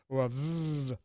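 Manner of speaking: voiced v buzz; buzzing v sound. Shown as a demonstration. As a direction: breathe out on a buzzing v. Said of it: "breathe out to these different sounds".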